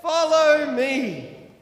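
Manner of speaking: slow, loud, drawn-out leader's call; slow Mister T call. Acted. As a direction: stretch each word like a wise old guide. Mister T leads the cars.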